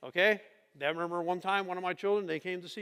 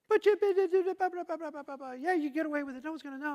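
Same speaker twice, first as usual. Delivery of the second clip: high, mocking tempter voice, much higher than his own; 9 semitones higher than usual. Pastor mimics temptation whispering he'll get away, mocking high tempter. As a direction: tease like a sly tempter egging him on.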